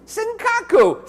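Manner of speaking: Senkaku said slowly, each syllable sen-ka-ku clear, pitched high; slow classroom model of Senkaku; Japanese pronunciation. Shown as a demonstration. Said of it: "Say it along with me".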